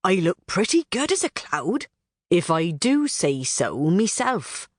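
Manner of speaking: lightly voiced, pleased with himself, slowing at the end; a mild self-satisfied preen; smug Robin. Robin admiring himself as a cloud, mildly smug. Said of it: "he thought approvingly".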